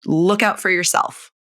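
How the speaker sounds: ordinary talk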